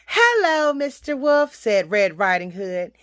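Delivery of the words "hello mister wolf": put-on lightly raised little-girl voice; a polite child greeting, slightly higher. Little girl answers the wolf.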